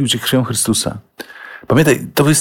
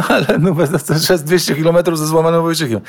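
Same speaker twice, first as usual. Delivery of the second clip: laughing; 5 semitones higher than usual. Real, not acted. Laughing at the story.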